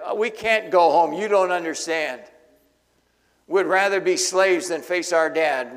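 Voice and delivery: loud, rushed, desperate begging; panicked pleading. Acted. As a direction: plead loudly like frightened brothers. Brothers plead, panicked, in story.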